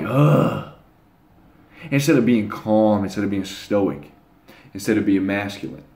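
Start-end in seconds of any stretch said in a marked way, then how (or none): 0.0-0.7 tired groan. Retold or imitated. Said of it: "I would just feel like".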